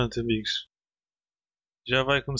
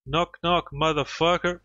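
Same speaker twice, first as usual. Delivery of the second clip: mock threat, pitched up; teasing singsong; 3 semitones higher, slower than usual. Player taunts the door in a higher mock singsong.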